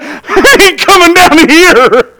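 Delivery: slow, chuckling disbelief under his breath; amused slow mutter through a laugh; laughing to himself. Retold or imitated. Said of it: "I laughed to myself".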